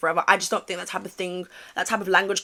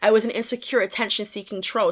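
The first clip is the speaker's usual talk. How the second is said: put-on American accent; playful American-accented tweet reading. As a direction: read the apology in an imitation American accent. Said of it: "let me read it in American accent".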